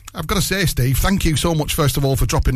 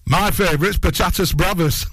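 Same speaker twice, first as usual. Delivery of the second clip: laughing; 3 semitones higher than usual. Retold or imitated. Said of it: "And he's gone".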